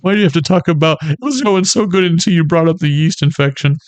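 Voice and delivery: lightly voiced offended listener; annoyed woman. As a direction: scold him for ruining the moment. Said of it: "divine feminine out there who's like".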